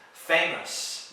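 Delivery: "Famous" as FAY-muss; correct pronunciation. Shown as a demonstration. Teacher modelling the word for learners, correctly pronounced. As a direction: say "Famous" with a short weak us ending. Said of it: "Listen to my pronunciation".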